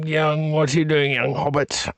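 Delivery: playful wizard impression calling on a hobbit; Gandalf. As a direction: act out a visiting wizard, altered timbre. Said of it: "Gandalf's gonna come by. He's gonna be".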